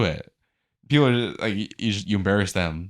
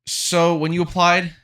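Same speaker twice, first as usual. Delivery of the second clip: pretend interviewer; 5 semitones higher than usual. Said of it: "And I'll play interviewer".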